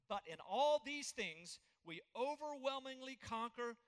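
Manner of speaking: triumphant reading. Real, not acted. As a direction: proclaim the victory line. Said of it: "here it is".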